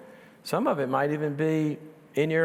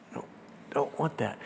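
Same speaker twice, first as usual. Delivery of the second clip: put-on baby refusing; 3 semitones lower, 7 dB quieter than usual. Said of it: "they'll go like this".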